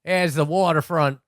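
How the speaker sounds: bad Aussie accent, slowed right down; mock Australian accent. Tour guide showing the waterfront, in a slow Australian accent. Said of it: "with my great Australian accent".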